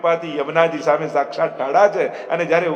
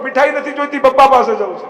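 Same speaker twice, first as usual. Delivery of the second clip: high, loud tearful wail; crying child; 8 semitones higher, 7 dB louder, faster than usual. Retold or imitated. Lost boy refusing sweets, crying for his father.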